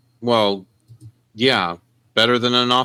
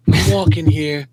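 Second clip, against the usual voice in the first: raised, indignant pedestrian yell in imitation; mock-protest at a driver, pitched up; Midnight Cowboy quote; 6 semitones higher than usual. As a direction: do the movie's irate street-crossing line. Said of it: "pull a ... midnight cowboy".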